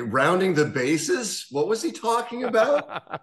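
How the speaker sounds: wide-eyed, playing stupid, rising high on the question; mock innocent. Joking with friends about Rizzuto, mock innocent. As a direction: feign total innocence.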